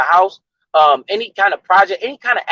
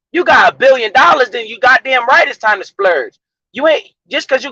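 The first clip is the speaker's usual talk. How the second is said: emphatic shout; 5 semitones higher than usual. Real, not acted. Preaching about spending money.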